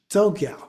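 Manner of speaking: "Tsogyal" begun with a light T into S; touch the T, then release into the S of "Tsogyal"; TS sound. Shown as a demonstration. Teacher giving another example, "Tsogyal" with TS onset. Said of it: "start with the first letter but emphasize the second".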